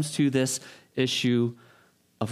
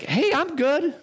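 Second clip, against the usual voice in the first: casual brush-off; 12 semitones higher than usual. Retold or imitated. Laid-back guy responds.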